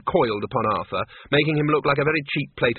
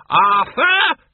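high, loud cry of his name; sharp scolding call; 12 semitones higher, 7 dB louder than usual. A narrator's reading. Doreen silencing Arthur's objection, loud high-pitched scolding. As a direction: cut him off with a piercing reprimand.

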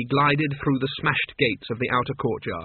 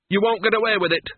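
high, louder panic; hysterical; 7 semitones higher, 3 dB louder, faster than usual. A narrator's reading. Wizard to the Duke, hysterical. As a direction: lose his nerve completely. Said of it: "said Cutwell hysterically".

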